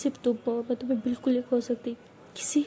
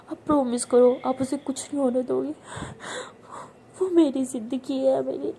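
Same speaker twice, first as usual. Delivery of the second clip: frightened tearful begging. Acted. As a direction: beg as if your whole life depends on it. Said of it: "तो उसे बोल के बहुत ज़्यादा रोती है".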